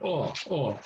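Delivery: "oh" as an open "aw"; Korean eo vowel. Shown as a demonstration. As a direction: open the "oh" toward "aw", no glide. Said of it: "This is pronounced oh".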